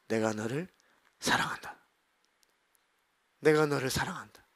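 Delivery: low, soft declaration of love; God's loving reply. Retold or imitated. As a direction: answer a complaint with quiet tenderness. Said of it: "저에게 하나님은". (낮고 부드럽게 사랑을 전하는 하나님 음성)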